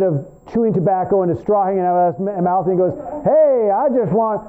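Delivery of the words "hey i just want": higher, drawn-out hillbilly greeting; folksy hillbilly accent, pitched up; silly hillbilly accent. Acted. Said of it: "had a little silly accent".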